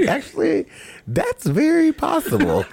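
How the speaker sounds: high, slow know-it-all detective; mock detective. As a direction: play a smug TV detective. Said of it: "you're like".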